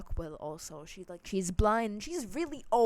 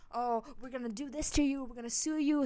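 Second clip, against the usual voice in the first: retold threats, slightly raised pitch; mock threatening; 4 semitones higher than usual. Girls threatening to sue her by message, mock threat. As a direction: imitate their threats mockingly. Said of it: "threatening the shit out of me".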